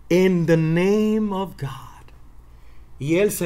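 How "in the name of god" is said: hushed, reverent whisper. Acted. Preacher telling how David faced the giant, whispered. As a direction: breathe it out in awe.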